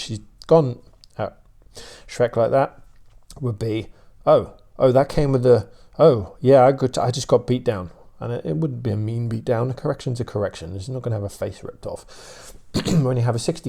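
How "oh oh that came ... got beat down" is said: a touch of a startled dog realizing it got put in its place; dog's inner voice. Retold or imitated. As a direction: lightly voice the puppy's sudden dawning. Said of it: "Mia's course of action and thought process".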